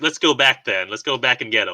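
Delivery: normal talking voice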